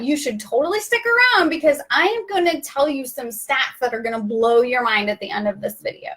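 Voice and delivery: upbeat teaser pitch; presenter hook. Shown as a demonstration. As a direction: tease the audience like a host. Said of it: "See how quickly I did that".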